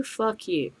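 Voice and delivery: quiet fuck you. Real, not acted. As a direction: let it fall quietly with scorn. Ranting defiance, dropped low.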